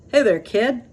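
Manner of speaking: lightly voiced dog calling out; Dodger calling. Dodger calling Oliver down from the tree, lightly voiced. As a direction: call down to the kid in the tree. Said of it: "Dodger called".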